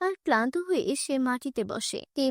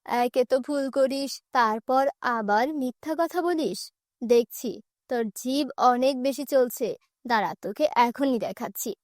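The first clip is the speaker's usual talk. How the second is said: threatening stepmother; 2 semitones lower than usual. Acted. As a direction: threaten the girl before a beating.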